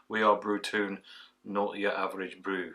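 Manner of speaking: put-on a light, half-hearted Scottish accent on the slogan; bad Scottish accent. Reading the brewery's slogan off the bottle, light mock Scottish accent. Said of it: "in a admittedly bad Scottish accent".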